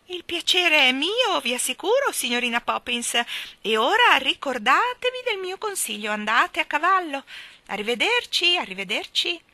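high, loud, gloating little-bird chirp; gleeful Miss Calicò. Acted. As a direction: crow with delight in a high, loud voice. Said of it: "disse la signorina Calicò gongolante".

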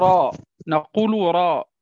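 "راء" with a full, heavy r; heavy raa. Shown as a demonstration. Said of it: "متى تكون الراء مفخمة؟ نقول راء".

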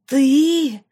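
high, loud furious bark; enraged snarl of one word. Acted. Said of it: "рявкнула она".

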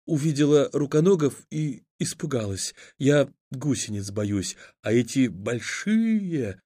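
put-on tremble as a scared child; frightened girl. A narrator's reading.

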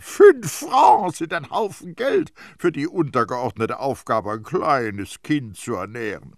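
loud, high start easing into indignant argument; shouting in outrage. A narrator's reading. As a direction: open at a shout, then bring it down. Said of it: "schrie Terrier sie an".

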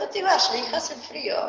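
pleading. Retold or imitated. Mother begs daughter to stay.

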